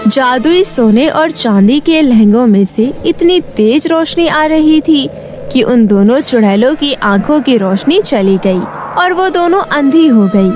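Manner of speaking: ordinary delivery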